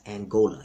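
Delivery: "Angola" opening on a clear "an"; common mispronunciation. Shown as a demonstration. Correcting viewers on the kingdom's name, mispronounced "Angola". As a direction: say "Angola" as English does, an-GO-la. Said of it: "that you mispronounce".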